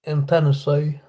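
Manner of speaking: Tennessee accent; a touch of Southern US twang; Southern drawl. Shown as a demonstration. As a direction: show off a light Tennessee drawl. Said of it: "a bit of a southern drawl".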